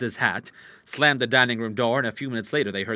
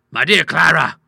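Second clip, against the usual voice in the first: loud, raised-pitch exclamation; astonished cry; 6 semitones higher, 13 dB louder than usual. Acted. Father spotting his daughter's skirt, loud astonished cry. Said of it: "he cried".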